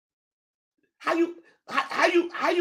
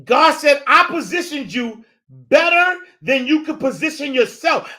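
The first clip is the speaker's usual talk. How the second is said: preaching repeat; 5 semitones higher than usual. Acted. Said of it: "repeats the quote, less heated".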